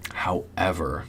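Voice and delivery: unvoiced, soft whisper; a whispered however; whispered aside. Real, not acted. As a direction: drop to a whisper on it. Whispered turn in story.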